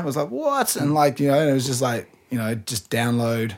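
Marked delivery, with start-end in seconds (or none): 0.3-0.7 a high, startled "what"; retold surprise. To Hands Down, a high, surprised what. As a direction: jump up in disbelief. Stunned reaction in retold chat.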